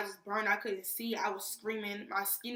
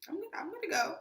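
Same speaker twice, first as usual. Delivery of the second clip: nervous stammer; 9 semitones higher, much faster than usual. Retold or imitated. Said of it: "I'm just like".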